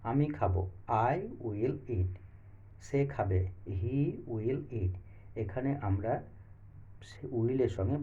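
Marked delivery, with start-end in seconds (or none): 1.1-2.1 each word drawn out very slowly; slow model sentence. Shown as a demonstration. Teacher modelling English for students, very slow and clear. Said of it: "shall বা উইলের সঙ্গে ভার্বের V one ফর্মটি". 3.8-4.9 each word drawn out very slowly; slow model sentence. Shown as a demonstration. Teacher modelling English for students, very slow and clear. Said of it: "shall বা উইলের সঙ্গে ভার্বের V one ফর্মটি".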